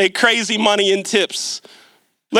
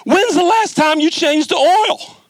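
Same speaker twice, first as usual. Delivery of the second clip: higher, pointed mechanic's question; 5 semitones higher than usual. Retold or imitated. Mechanic asks the student about the oil, in a higher, pointed voice. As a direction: ask it like you already know the answer. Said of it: "He says".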